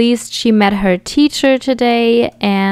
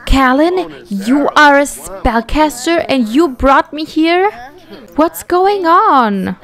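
upset; 5 semitones higher than usual. Acted. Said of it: "It's like".

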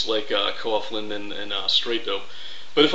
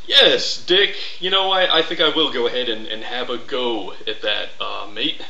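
mock prim reply. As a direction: play along in a prissy tone.

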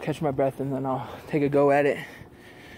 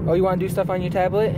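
higher, fast, playful; 4 semitones higher, 4 dB louder, faster than usual. Real, not acted. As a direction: uncle checking what his niece wants, higher and quick. Uncle talks to his niece.

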